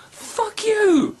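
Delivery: sharp high angry curse; high-pitched furious curse at God; angry outburst. Real, not acted. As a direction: spit it out in anger. Cursing God.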